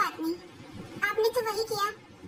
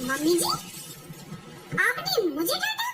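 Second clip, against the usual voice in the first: shocked disbelief; 2 semitones higher than usual. Acted. Bhabhi shocked, scolded by mother-in-law.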